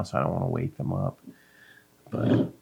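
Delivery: soft whisper so nobody wakes. Real, not acted. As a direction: hush it to a whisper. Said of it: "in a quiet voice".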